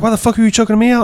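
indignant demand, imitating mom; mock angry mom. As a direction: play up her mad protest. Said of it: "she was super mad at me".

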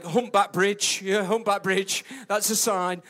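loud deadpan joke; playful punchline; joking. Retold or imitated. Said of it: "I was like".

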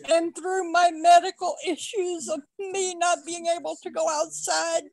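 real emotion breaking through the thanks; getting emotional. Real, not acted. Fan thanking the host for help through the pandemic, voice breaking with tears. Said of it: "I'm fixing to get emotional here".

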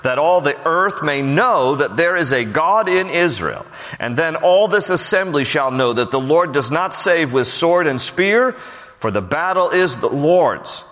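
preaching David's defiant speech; fervent scripture reading. Acted. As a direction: declare it with growing conviction. Reads David's speech with rising fervour.

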